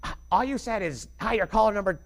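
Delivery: whiny listener. Retold or imitated. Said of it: "when people are like".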